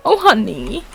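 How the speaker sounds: a hint of condescending sympathy; patronising. Real, not acted. Streamer answering a chatter, mildly patronising. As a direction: pat them on the head with it. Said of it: "Sounded so patronising".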